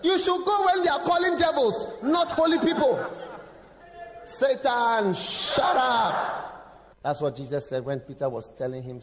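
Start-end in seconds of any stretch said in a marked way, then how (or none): 0.0-3.0 devil mocking. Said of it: "the devil will tell you". 4.2-7.0 higher, firm command; firm rebuke. Shown as a demonstration. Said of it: "repeated rebuke demo".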